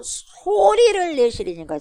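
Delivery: 소리 stretched out high; emphatic quote. Acted. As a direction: draw out 소리 high and slow. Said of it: "뭘 내요?". (소리를 높고 길게 강조)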